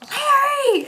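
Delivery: high laughing call of Larry; coworker's Larry yell. Retold or imitated. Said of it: "he would immediately go".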